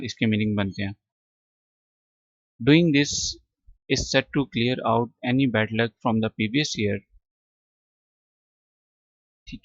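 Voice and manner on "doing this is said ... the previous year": very slow, word by word; slow reading. Shown as a demonstration. Teacher reads the passage slowly to class. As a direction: read it out slowly for students.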